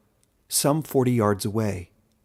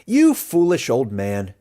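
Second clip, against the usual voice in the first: scornful retort; 5 dB louder, slower than usual. Acted. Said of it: "said someone else in the circle".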